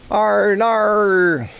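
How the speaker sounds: high drawn-out call of the name Arnar. Real, not acted. Streamer calling a friend by name, high drawn-out shout. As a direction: call out to get Arnar's attention.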